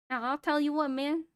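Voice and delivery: lightly voiced Southern trucker; a tentative go at a Southern accent; Southern space trucker. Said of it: "I was a southern, uh, space trucker".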